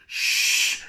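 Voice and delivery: breathless hush; whispered shush. Retold or imitated. Sneaking past the landlady's door, hushing in a whisper. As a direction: hush it under your breath. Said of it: "And he goes".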